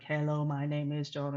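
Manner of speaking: lightly imitated robot voice, evenly spoken; a hint of a mechanical robot voice. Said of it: "he said, like a robot".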